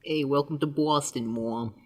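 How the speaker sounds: understated fake Boston accent. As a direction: try out a Boston greeting, dropping off at the end. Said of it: "the hardest possible Boston accent".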